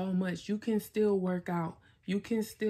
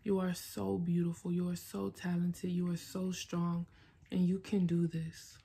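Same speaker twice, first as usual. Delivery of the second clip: tender; 3 dB quieter than usual. Real, not acted. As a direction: reassure yourself gently like a loved one. Tender self-affirmation to Asia.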